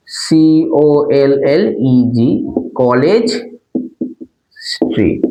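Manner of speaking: "কলেজ" spelt letter by letter; slow spelling. Shown as a demonstration. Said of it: "বড় হাতের সি হবে".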